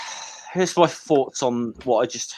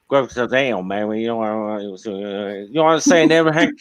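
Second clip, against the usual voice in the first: lightly voiced slurred cartoon mumbler; Boomhauer; 3 semitones lower than usual. Mocking a hard-to-understand dialect, mumbled cartoon impression. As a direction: run the words together into near-unintelligible mumble. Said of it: "do you remember the character Boomhauer".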